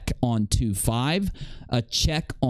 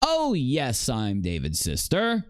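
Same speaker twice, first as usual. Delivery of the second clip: mocking imitation of the clip; slower than usual. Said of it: "mimicking the clip just played".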